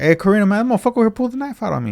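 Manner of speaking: high, fast, urgent complaint; retold alarmed report. Telling Karina about the knife, retold urgency.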